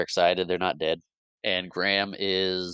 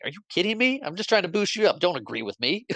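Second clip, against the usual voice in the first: mock exasperation; 10 semitones higher, faster than usual. Spots scolding Jackson, laughing.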